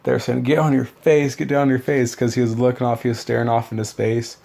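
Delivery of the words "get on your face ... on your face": mild mock drill instructor yell; imitated screaming. Drill instructors screaming at one recruit, imitated mild yell. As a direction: bark it a little higher, imitating the screaming. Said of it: "they're screaming at him".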